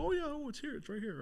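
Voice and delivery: suddenly high-pitched "oh, look!" act; feigned innocent discovery. Acted. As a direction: put on a high, innocent finder's voice. Feigned helpful finding of hidden item.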